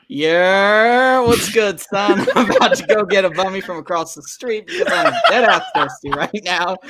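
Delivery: put-on New York accent. Playing New York Nick for the livestream chat, light New York accent. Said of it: "he's gonna go full New York on ya".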